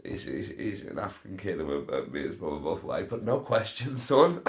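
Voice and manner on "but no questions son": a hint of a proud father, rising on son; mock proud dad. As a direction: play the jokey dad sealing the deal. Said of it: "mock father to adopted son".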